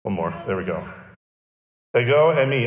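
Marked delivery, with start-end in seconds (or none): 2.0-2.7 "Ego eimi" said as eh-go ay-mee, stress on the first syllable of each word; careful Greek "Ego eimi"; Greek pronunciation. Shown as a demonstration. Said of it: "it's translated as ego eimi".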